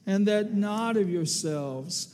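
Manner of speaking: recited together with congregation. Acted. Pastor leading the congregation in reading scripture aloud, steady recitation. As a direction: lead the church in reciting the verse. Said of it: "Let's say it together".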